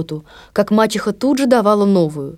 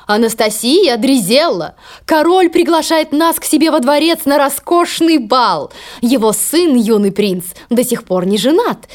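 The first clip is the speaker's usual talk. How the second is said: haughty stepmother; 3 semitones higher than usual. Acted. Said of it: "стала звать дочерей".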